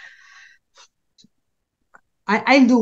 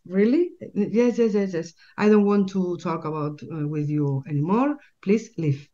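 shop owner; 2 semitones higher than usual. Retold or imitated. Shop owner throwing speaker out.

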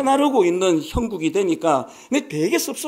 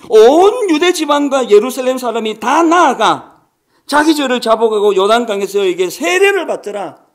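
scripture reading; 7 dB louder than usual. Acted. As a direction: read the text out to the congregation with weight.

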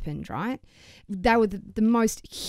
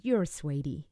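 imitating Meryl; 4 semitones lower, 4 dB quieter than usual. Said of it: "touched my face and said".

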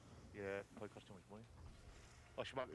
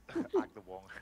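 Agna Wang drawn out slowly through a laugh; 3 semitones lower, 11 dB louder, much slower than usual. Real, not acted.

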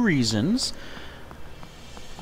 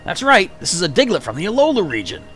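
gruff voice. Acted. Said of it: "he's a more gruff voice".

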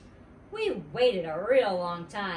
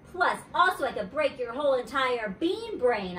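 put-on louder angry kid retort; fighting back at the meanie; hollering back; 4 semitones higher, 4 dB louder than usual. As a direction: threaten that boy. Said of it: "I hollered back".

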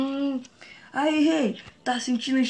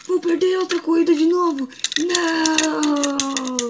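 despairing cry; 4 semitones higher, slower than usual. Acted. Car losing race, despairs.

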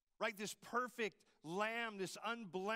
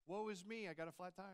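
shrugging, deadpan woe that trails off softer; mock understatement; 4 dB quieter, faster than usual. Shown as a demonstration. Preacher mocks a too-mild Isaiah, deadpan and trailing off. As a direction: undersell it like a minor nuisance. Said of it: "that doesn't do it justice".

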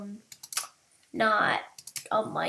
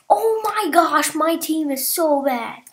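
whiny complaint; 4 semitones higher, 5 dB louder than usual. Real, not acted. Whining about team.

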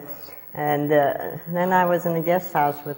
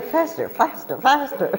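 high, laughing chant of faster; urging faster; 10 semitones higher than usual. Retold or imitated. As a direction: egg the driver on, laughing. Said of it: "making him drive faster and faster".

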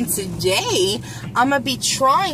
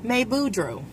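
Cajun "May Boudreaux" with a long drawn "May"; cajun accent; 4 dB quieter than usual. Shown as a demonstration.

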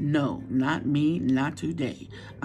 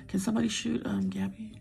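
hushed joking aside; a sneaky whispered joke; mock whisper; 3 semitones higher than usual. Real, not acted. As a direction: say it under your breath as a joke. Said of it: "No, I was kidding".

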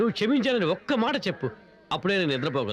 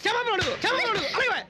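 insistent demand; 7 semitones higher than usual. Acted. Father demands apology repeatedly.

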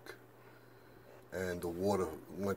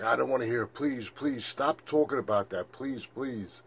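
higher-pitched, mildly pleading daughter; retold pleading; 3 semitones higher than usual. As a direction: imitate a daughter begging him to stop. Daughter begs him to stop talking.

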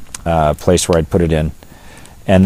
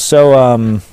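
retold ranger, probing; 6 semitones higher, slower than usual. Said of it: "And he goes".

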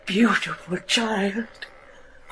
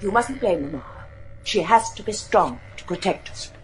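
whisper; 5 dB quieter than usual. Acted. Sybil secretive about Mama.

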